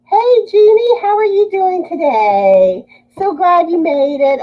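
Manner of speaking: bright, high and eager hello; high, excited hello to a viewer; excited greeting. Real, not acted.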